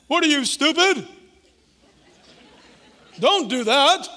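high, loud mocking scold; scornful doubt. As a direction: scoff at the idea like doubt itself. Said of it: "doubt sounds like the voice of reason".

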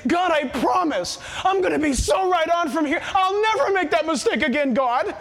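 naive, over-eager vow; earnest mock vow. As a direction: promise God fervently, gently mocking yourself. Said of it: "We're so silly to say".

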